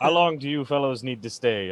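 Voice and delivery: shouting, calling out over a distance. Calling out in character to the others from a distance: shouting back. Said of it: "I shout back at them".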